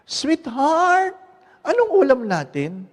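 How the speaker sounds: high-pitched call to a spouse; pitched high, a husband hailing his wife; calling from afar. Acted. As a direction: call out from a few steps off. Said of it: "Humakbang ng dalawa".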